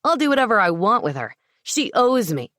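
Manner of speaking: roaring. Acted. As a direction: bellow it out. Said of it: "Lewis roared".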